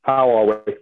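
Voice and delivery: muffled, distant phone line; like talking through a tin can. Real, not acted. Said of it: "speaking through a tin can and a string from the bottom of the ocean".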